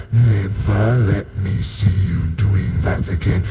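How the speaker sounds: scolding dad. Acted. Dad telling his son off, slow scolding. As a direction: drum each word in like a stern father. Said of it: "in time with the words".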